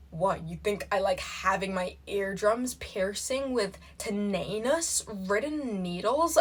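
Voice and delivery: wife's retort in put-on American accent. Wife refusing the concert invite, put-on American accent. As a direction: voice the scornful quote in imitation American. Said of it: "I'm gonna do this in American accent".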